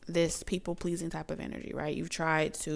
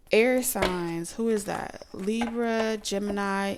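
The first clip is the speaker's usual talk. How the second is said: louder call-out; 3 semitones higher, 4 dB louder, slower than usual. Pretend. Calling out to air-sign viewers, louder. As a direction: Air signs called out louder.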